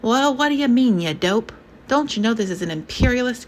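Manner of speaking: put-on loud, high, scornful young radical; a hotheaded youth sneering at patriotism. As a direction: jeer at the old patriots like a hotheaded student. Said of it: "A young voice, radical".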